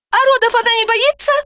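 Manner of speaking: high, forceful urgent orders; Roza, urgent. A narrator's reading. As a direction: command her at once. Roza argues.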